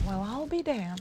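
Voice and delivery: soft country drawl; hushed country twang; country accent. Acted. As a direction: say it in a quiet backwoods accent. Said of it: "speak in a, an accent like that".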